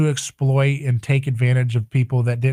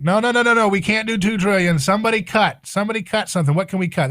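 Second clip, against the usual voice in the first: mocking bureaucrats; 6 semitones higher, faster than usual. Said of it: "They're like".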